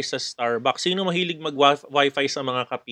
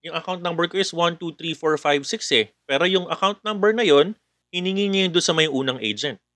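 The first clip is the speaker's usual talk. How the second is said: scam caller; 4 semitones higher than usual. Acted. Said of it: "that customer will call again".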